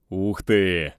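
drawn-out wow of delight; pleased amazement. Acted. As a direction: marvel happily at a treasure. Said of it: "расцвёл сержант".

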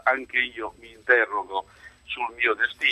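caller too far from the receiver; faint voice down the phone line; over a landline phone. Real, not acted. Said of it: "avvicini un attimo la cornetta, se no sentiamo poco".

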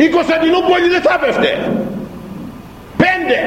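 high impassioned sermon cry; high preaching cry. Real, not acted. Preacher hammering the five Christians point, high and fervent. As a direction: cry it out to the congregation.

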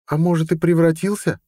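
put-on high, let-down girlish question; a girl sorry the fun is over; disappointed. Amela asks her friends about Ned, high and disappointed. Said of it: "разочарованно спросила Амела".

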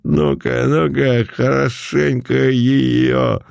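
rowdy high jeering; egging on. Acted. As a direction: egg him on like a drunk. Crowd egging on.

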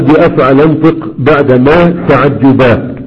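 slow chanted recital of the verse; verse recitation. Shown as a demonstration. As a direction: recite the line slowly like a learned poem.

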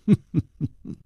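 short chuckle in character; pleased chuckle. Acted. Leng Qiuhun pleased at Song Gang's promise, chuckle. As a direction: chuckle lightly, tapering off. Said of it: "冷秋魂展颜一笑".

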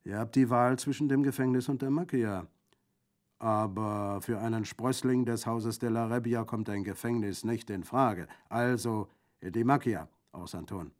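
loud, hearty bandit voice; decisive bandit. Acted. Bandit decides on the macchia for Orso, hearty and firm. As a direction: lay out the choice with firm energy.

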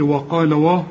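وا with a thick, rounded vowel; wrongly heavy waw. Shown as a demonstration. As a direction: demonstrate the mistake, وا heavy and backed. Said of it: "مش تقول لي".

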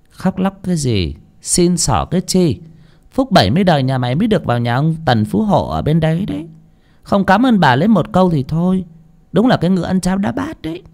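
high-pitched haughty scold, quickening; scolding mistress. A narrator's reading. Rich mistress scolding crying servant girl, sharp rebuke. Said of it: "Bà Phú nói".

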